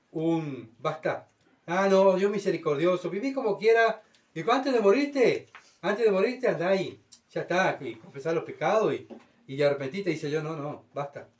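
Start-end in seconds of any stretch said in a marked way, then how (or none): 1.7-10.1 mocking sinner. Careless sinner mocks God's mercy. 10.4-11.3 quiet firm refusal. Pretend. God says enough, final.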